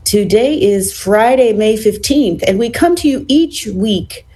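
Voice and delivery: measured, polished talk-radio host opening; radio show intro. Acted. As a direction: welcome the listeners to the show, crisp and rehearsed. Reads the show's opening.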